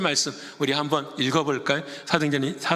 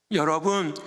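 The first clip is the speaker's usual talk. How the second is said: ordinary delivery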